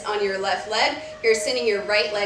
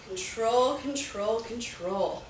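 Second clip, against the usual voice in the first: each control softer, fading away; fading repetition; 6 dB quieter, slower than usual. Shown as a demonstration. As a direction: let the word die away gently. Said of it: "Get control of that breath".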